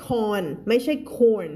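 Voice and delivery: "corn" with a flat or vowel, no oy glide; counter-example "corn" for coins; wrong "corn" version. Shown as a demonstration. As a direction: say "corn", dropping the glide and final s.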